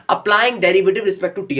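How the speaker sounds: reading the line out slowly; slow dictation. Shown as a demonstration. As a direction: dictate it for the students. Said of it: "reads question line slowly".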